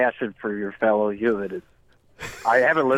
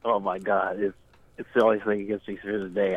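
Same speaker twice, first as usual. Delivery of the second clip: nasal voice; 4 semitones lower, 4 dB quieter than usual. Acted. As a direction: fake sick nasal voice. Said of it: "a little bit less nasality next time".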